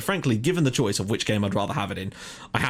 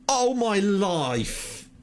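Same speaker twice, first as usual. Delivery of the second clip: exasperated groan; 7 semitones higher, much slower than usual. Real, not acted. Goals conceded in quick succession.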